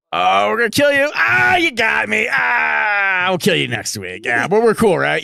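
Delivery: hammy French otter voice; comic French accent, loosely held. Retold or imitated. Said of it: "that was his French accent".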